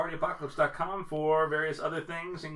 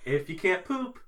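alien pitchman, raised voice slowing down; Baylock; 6 semitones higher than usual. Acted. Alien commander selling his drink as a remedy, put-on pitchman voice. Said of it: "Take it from Baylock".

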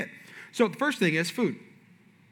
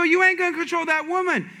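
blunt pastor, again; 9 semitones higher, 3 dB louder than usual. Retold or imitated. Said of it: "He go".

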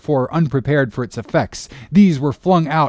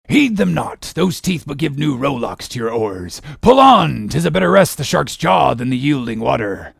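urging the crew. A narrator's reading. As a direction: spur the rowers on, punching each command. Captain urging on his oarsmen.

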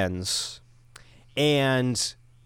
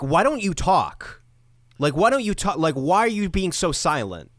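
a raised, pushy mom demanding answers, slowed on the first line; mock mom yelling at her daughter's guest; retold yelling mom; 5 semitones higher than usual. Girlfriend's mom yelling at silent guest, mock raised voice. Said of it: "yells at me and says".

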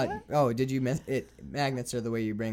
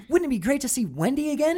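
dreamy wistful Peter; 13 semitones higher, 7 dB louder than usual. Retold or imitated. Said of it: "and then he's like".

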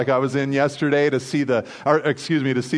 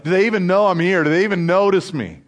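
higher, quicker mock plea of a new parent; wondering parent; 4 semitones higher, 3 dB louder, faster than usual. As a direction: ask it as an overlooked parent. New parent wondering about infant.

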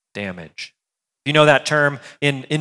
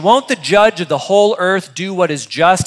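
louder, higher pointed challenge; accusing question; 4 semitones higher, 3 dB louder than usual. Acted. Abraham accuses God of injustice, pointed and challenging. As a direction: press the accusation. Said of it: "almost an accusation".

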